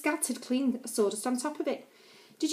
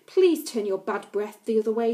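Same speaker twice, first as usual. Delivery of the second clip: snarled; 5 dB louder than usual. Acted. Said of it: "she snarled".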